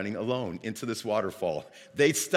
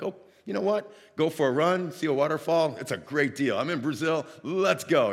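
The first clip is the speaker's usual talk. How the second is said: acted-out burst of enthusiasm, higher and louder; eager agreement; 4 semitones higher, 5 dB louder than usual. Traveler agreeing to a waterfall run in Brazil, excited. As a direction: retell an eager yes, pitched up.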